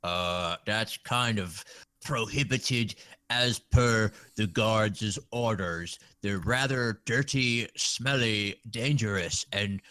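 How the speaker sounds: lopsided funny NPC voice; side of mouth. Acted. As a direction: talk out of one side of the mouth. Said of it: "talking out of the side of my mouth with a funny voice".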